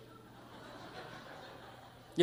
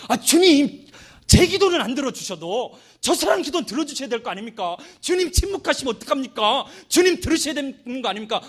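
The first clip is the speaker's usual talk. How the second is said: mock fretful prayer, slightly raised; an elder's mildly huffy plea to the Lord; lightly acted annoyed elder; irritated complaint; 6 semitones higher than usual. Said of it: "짜증도 살짝 나요".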